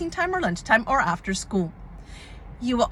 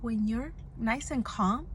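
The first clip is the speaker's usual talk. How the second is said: soft, hushed teacher voice; whispered calming; 8 dB quieter than usual. Retold or imitated. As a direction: imitate quietly settling an upset child. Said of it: "I whispered to her".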